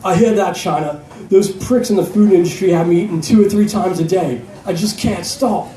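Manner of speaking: loosely voiced Rhodesian accent. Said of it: "I'm gonna do a Rhodesian accent".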